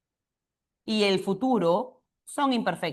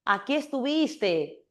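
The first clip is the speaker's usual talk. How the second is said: slow demo; 2 semitones higher, slower than usual. Shown as a demonstration. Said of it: "Una vez que te busca y te encuentra".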